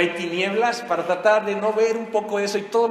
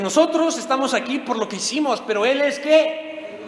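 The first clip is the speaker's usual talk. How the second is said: pleading thief; 7 semitones higher, 3 dB louder than usual. Acted. Preacher voices repentant thief.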